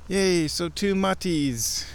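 slow delighted "Yay"; drawn-out happy yay; happy cheer. Real, not acted.

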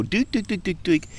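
quick, high doot-doot-doot; playful sound effect for little tracks; little track noises. Shown as a demonstration. Mimics the pattern of tracks.

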